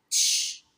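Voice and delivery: "تش" as a short voiceless ch burst; ch sound. Shown as a demonstration. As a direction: push out "تش" like the English ch in chair. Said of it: "سي اتش بتتنطق".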